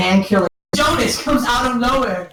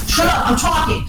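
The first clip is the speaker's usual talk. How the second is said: high-pitched protest at interruption; indignant; 10 semitones higher than usual. Real, not acted. Storyteller shushes an interrupting listener, indignant. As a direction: pitch jumps up to silence them.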